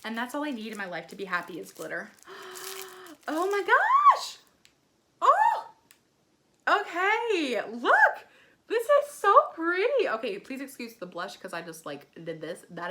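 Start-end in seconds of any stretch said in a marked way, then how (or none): 2.3-3.2 soft high gasp; astonished gasp. Real, not acted. Vlogger seeing all the glitter, astonished gasp. Amazed by brush and highlight. 3.3-10.1 high, loud squeals of delight; thrilled amazement. Real, not acted. Vlogger swiping on highlight, thrilled amazement.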